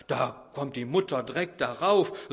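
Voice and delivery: ordinary talk, nothing marked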